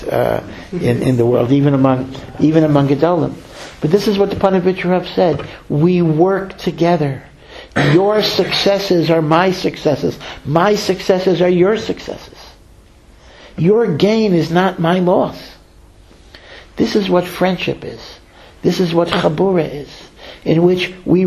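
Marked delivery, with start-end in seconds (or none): 5.7-15.4 slow and heartfelt; sincere creed. Retold or imitated. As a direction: lay each phrase down slowly like a lesson. Rabbi states his creed.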